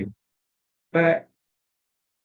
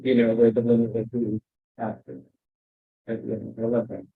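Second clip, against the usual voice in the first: muffled; 2 semitones lower than usual. Real, not acted. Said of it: "you muffled out for a minute there".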